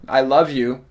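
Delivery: "love" carries the weight; stress on love. Shown as a demonstration. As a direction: lean on the word "love". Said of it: "you might stress a different word".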